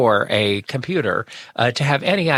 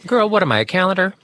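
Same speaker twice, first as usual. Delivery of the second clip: sassy; 6 semitones higher, much faster than usual. Acted. Sassy retort.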